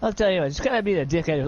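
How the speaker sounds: rattled off fast, mimicking the line; tossed back quickly in mock imitation; quick mock repeat. Player echoing Kyle's line, quick and teasing. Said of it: "I wasn't that loud".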